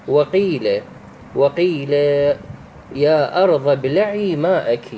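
measured recitation, the "ii" in وقيل held long; elongated vowel. Shown as a demonstration. Teacher reciting a Quran example, long "ii" in وقيل. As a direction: stretch the ya of وقيل for two beats. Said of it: "يكون المد بها بمقدار حركتين".

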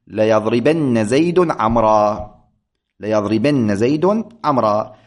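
ليضربن زيد عمرا with a doubled nun, said slowly; heavy nun of emphasis. Shown as a demonstration. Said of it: "نون توكيد ثقيلة مشددة".

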